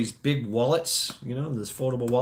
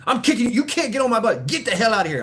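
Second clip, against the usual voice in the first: imitating the driver yelling, higher, louder and fast; angry bus driver; 9 semitones higher, 4 dB louder, faster than usual. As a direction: bark it like the furious old driver. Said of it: "And he's like".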